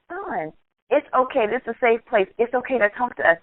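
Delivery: reassuring. Retold or imitated. Mother reassures son to open up.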